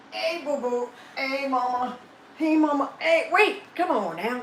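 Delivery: high cooing pet voice. Real, not acted. Owner greeting her dog, high cooing baby talk.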